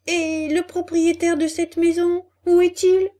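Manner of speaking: high, puzzled question; ask, amazed the house is empty; astonished. A narrator's reading. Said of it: "demanda Pinocchio, étonné".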